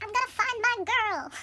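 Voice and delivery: slow, loud, high heroic declaration; mock-heroic prince. Thawed prince vows to find Thumbelina, mock-heroic cry. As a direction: belt it out as a hammed-up hero.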